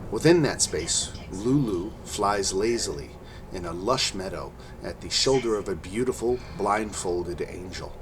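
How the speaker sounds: measured storytelling narration; game master narration. A narrator's reading. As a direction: set the dream scene calmly. DM scene narration.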